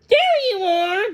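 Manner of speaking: high, loud relieved greeting; light up on finding her. Acted. Millie finding Daisy in the hay, relieved and bright. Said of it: "Millie said".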